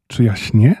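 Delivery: a hushed, wondering question to himself; surprised thought. Acted. Boy wonders if he dreams, mildly surprised. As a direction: ask it as if unsure you are awake. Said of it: "pomyślał zdziwiony".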